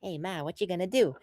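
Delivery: lightly imitated son talking back; Tony Soprano. Imitating the son answering his ma, mock retort. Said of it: "then Tony's like".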